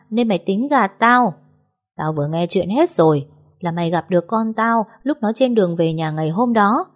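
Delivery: a hint of a stern, scornful matriarch; mother-in-law berating her son's wife, mildly contemptuous; accusing mother-in-law.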